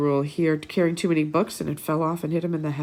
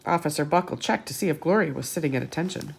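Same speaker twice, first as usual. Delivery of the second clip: put-on lively read-aloud to children; bright picture-book narration; storybook reading; faster than usual. A narrator's reading.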